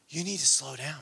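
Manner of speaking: low, soft retold voice; quiet divine counsel. Retold gentle word from God.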